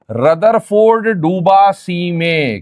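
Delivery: very slow, each word set apart; slow demonstration. Shown as a demonstration. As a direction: say "Rutherford डूबा सी में" slowly so it sticks. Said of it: "वो सुनिएगा".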